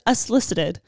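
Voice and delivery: "unsolicited" said as "us-lisited", without its first N; misspelling read aloud. Shown as a demonstration. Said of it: "I forgot the N".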